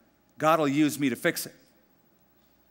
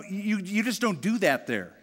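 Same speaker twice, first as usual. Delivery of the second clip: usual speaking voice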